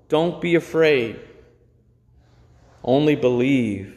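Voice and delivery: calm, gentle comfort; reassuring. Acted. Jesus comforting the grieving synagogue leader, calm and reassuring. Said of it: "powerful and reassuring statement".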